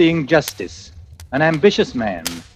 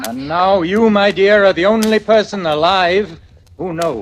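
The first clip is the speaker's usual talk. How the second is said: menacing; 4 semitones higher, 3 dB louder than usual. Acted. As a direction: lean in and say it like a threat. Strangler delivers the menacing line.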